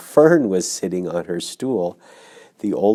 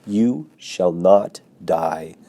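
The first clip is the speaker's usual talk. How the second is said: brisk; slower than usual. Acted. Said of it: "Charlotte briskly".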